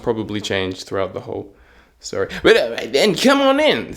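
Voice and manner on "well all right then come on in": loud kingly voice, leaping higher at the end. Acted. King admitting the tailor to royal service, loud kingly voice. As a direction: play a booming king welcoming someone in. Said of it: "that's the voice of the king".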